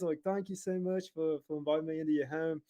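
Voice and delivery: eager put-on Australian; Australian accent. Salesman invited in by a family, putting on Australian accent. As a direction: thank them as a pretend Australian. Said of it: "do the Australian accent for some rea".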